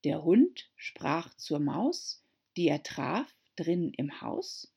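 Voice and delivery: slow, measured rhyme; poem reading. A narrator's reading. Narrator reciting the mouse's tale, slow rhyme. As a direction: read it like a poem.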